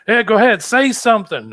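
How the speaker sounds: loud, very high-pitched urging; imitated eager host. Local showing off visitor to friends, loud imitated urging. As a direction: call out excitedly, egging someone on. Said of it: "brought me to all his friends' houses and said".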